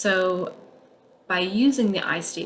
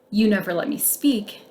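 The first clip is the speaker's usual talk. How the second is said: mildly accusing, a bit louder; blaming tone; 2 semitones higher, 3 dB louder than usual. Shown as a demonstration. Blaming the partner, a touch accusing. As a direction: lay the blame on them.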